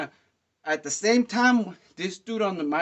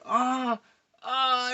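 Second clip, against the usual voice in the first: crowd's awed cry; 7 semitones higher than usual. Retold or imitated. Crowd awe as kid climbs.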